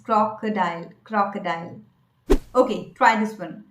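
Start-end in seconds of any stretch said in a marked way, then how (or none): 0.0-1.8 "crocodile" as KROK-uh-dile, short first o; correct pronunciation. Shown as a demonstration. Coach correcting children's mistake, correct pronunciation. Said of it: "but the correct pronunciation is".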